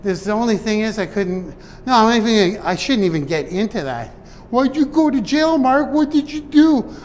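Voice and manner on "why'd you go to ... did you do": higher, louder nosy questioner voice; imagined viewer asking about jail, high and prying; mock curious audience. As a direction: play a prying viewer, pitched up.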